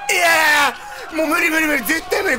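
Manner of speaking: real panic shout; panicked outcry. Real, not acted. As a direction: cry out that it's hopeless. Horror game panic outcry.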